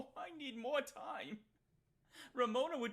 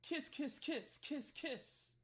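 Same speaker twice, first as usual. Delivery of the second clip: mock cutesy kisses; 5 semitones higher, slower than usual. Answering the teen's kissy face in chat, mock cutesy coo. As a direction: blow the kisses in a cooing lovesick voice.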